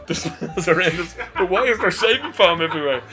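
laughing. Retold or imitated. Retold complaint told through laughter.

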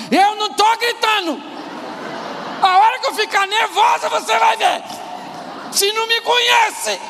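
high-pitched, loud indignant wife yelling; angry shouting. Acted. Nervous wife answers her husband's hushing, angry shouting. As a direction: shout it while denying any shouting. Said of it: "Ela tá gritando, sim ou não?".

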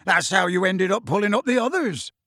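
mildly shouted telling-off; Hagrid shouting. Acted. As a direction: call up a reproach to the giant. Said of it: "shouted Hagrid".

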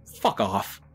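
curt furious brush-off; angry dismissal. Acted. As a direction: tell him to get lost. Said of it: "I said".

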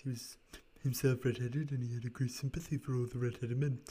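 lightly raspy storyteller voice; a hint of rasp for Spaulding. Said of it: "doing this raspy voice for him".

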